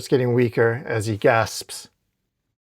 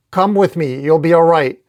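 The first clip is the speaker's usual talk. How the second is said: raised, confident hero voice; urgent reassurance; 3 semitones higher, 5 dB louder than usual. Acted. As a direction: reassure a victim with firm urgency. Superman reassuring fire victim.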